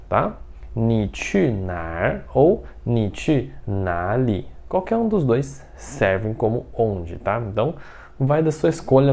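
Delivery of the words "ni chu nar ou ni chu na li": said slowly, nar then na li; both accents. Shown as a demonstration. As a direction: contrast the two slowly. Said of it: "com outro sotaque".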